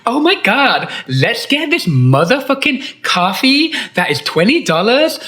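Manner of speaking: hammed-up vlogger rave; mocking a farmers market influencer. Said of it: "We're like".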